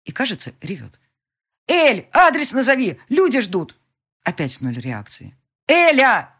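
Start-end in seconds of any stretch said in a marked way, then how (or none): 1.7-3.8 higher, louder, slow desperate yell; frantic shout. A narrator's reading. Heroine shouting at Elvira, dispatcher waiting, frantic. 5.7-6.3 higher, louder, slow desperate yell; frantic shout. A narrator's reading. Heroine shouting at Elvira, dispatcher waiting, frantic.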